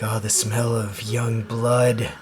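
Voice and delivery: slow, savoring vampire voice; vampire catching the scent of blood, slow and savoring; slow vampire craving. Acted. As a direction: draw each word out like a hungry vampire.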